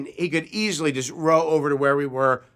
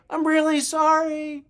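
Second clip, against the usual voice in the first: calling apology; 13 semitones higher than usual. Retold or imitated. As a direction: call an apology back from a passing canoe. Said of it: "I think I heard him say".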